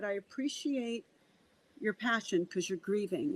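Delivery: soft, placating reassurance; retold gently, dropping the volume; calm reply. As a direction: soothe an upset client quietly. Soothing reply to upset client.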